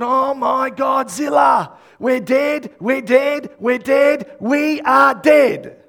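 high, loud, hammed-up despair; acted panic. Servant realizes they are surrounded, acted doomed panic. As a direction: repeat it as mounting doom, drawing out the ending. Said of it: "He would have thought".

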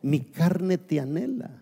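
muy lento y solemne, con anhelo; recitado lento. Shown as a demonstration. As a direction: saborea cada palabra del salmo. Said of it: "el salmista dice". (lento, arrastrado y devoto)

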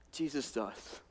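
almost whispered, soft and far; hushed reverent repeat. Retold or imitated. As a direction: breathe Jesus does with awe. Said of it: "But then Paul says".

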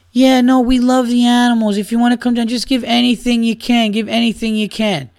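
mock charity worker. Mocking a charity worker's donation pitch, sarcastic. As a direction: parody a pushy fundraiser asking for donations. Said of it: "it's the same shit".

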